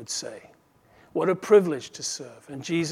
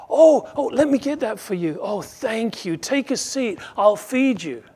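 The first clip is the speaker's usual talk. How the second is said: mock fawning master; 7 semitones higher, 6 dB louder than usual. Mock master fawning over servant.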